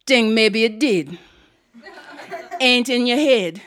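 lightly voiced island aunt; Aunt Queenie. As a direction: insist as a deadpan aunt. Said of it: "deep voice".

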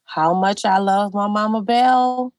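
slow and loving; slow, tender praise of a beloved great grandmother; fond. Real, not acted. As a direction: linger on Mama Bell with love. Fond words about great grandmother.

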